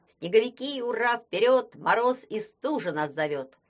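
loud, rousing battle call; rallying cry. Acted. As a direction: shout it like a charge.

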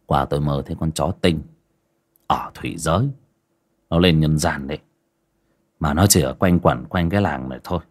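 low, hushed mysterious telling; master telling a tale. Acted. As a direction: draw him in with an eerie story. Master tells eerie dream.

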